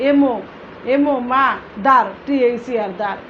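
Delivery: "মা" and "দার" said apart with their letters; teacher's piece-by-piece word breakdown; broken into syllables. Shown as a demonstration. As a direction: spell and sound out each half separately. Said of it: "ভেঙে ভেঙে উচ্চারণ করতে".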